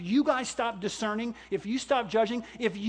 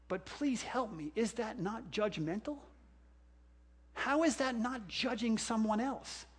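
sarcastic aside; 8 dB quieter than usual. Acted. Sarcastic rhetorical plea.

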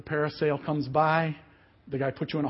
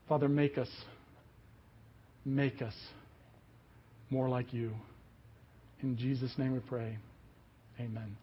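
prayer. Real, not acted. Leads closing prayer.

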